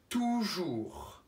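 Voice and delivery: Toujours drawn out syllable by syllable; Toujours, each syllable stretched; slow dictation word. Shown as a demonstration. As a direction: dictate Toujours slowly to children. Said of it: "en faisant les syllabes".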